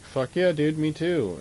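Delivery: loud, high-pitched hick cheer; dumb redneck cheer. Retold or imitated. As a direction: whoop it like a rowdy redneck. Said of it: "And they'd be like".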